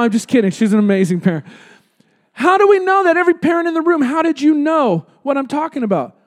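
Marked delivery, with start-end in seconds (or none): 2.3-6.2 playful question. Real, not acted. Asks parents in the room.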